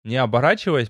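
usual speaking voice

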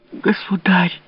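high, pleading cry; desperate cry. A narrator's reading. Louise, desperate, crying out to the king. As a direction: cry out in despair. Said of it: "воскликнула в полном отчаянии Лавальер".

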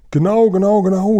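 high, loud triple cry; excited call. A narrator's reading. Guri overhearing the Sultan's answer, crying out excitedly. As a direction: burst in with eager confirmation. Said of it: "rief der Guri".

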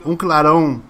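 deliberate ending narration, phrase by phrase; game master narration. A narrator's reading. Game master reading the ending to players, dramatic narration. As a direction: set the final scene with dramatic pauses.

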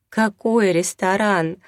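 slow, high-pitched wail of protest; tearful outburst. A narrator's reading. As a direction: burst out as if sobbing. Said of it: "разразилась рыданиями Леся".

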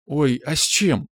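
put-on high, curious girlish question; lively interest. A narrator's reading. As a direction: perk up and ask, stretching it out. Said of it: "живо заинтересовалась Аля".

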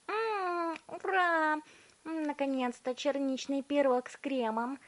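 very high, joyful cry; cheering girl. A narrator's reading. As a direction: cheer with mouth full. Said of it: "закричала Виолетта".

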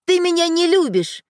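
высокий детский выкрик; выкрикнуть обиженно, зажмурившись; выкрик обиды. A narrator's reading. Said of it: "Света выкрикнула эти слова". (обиженный детский выкрик)

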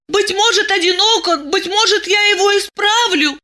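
put-on high, earnest young woman; high girlish voice pleading for him. A narrator's reading. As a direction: plead with swelling feeling, up high. Masha pleads for the monster.

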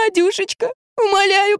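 very high, tearful begging; very high, sobbing plea; desperate pleading. Acted. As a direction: beg the dog with everything. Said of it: "рыдала Магда".

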